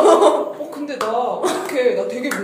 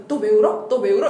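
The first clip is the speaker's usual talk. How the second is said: loud, tactless why-are-you-crying; tactless questioning; 6 dB louder than usual. Retold or imitated. Older sister asking her crying younger sibling, loud and tactless. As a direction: imitate prodding a crying sibling loudly. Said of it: "이게 아니라".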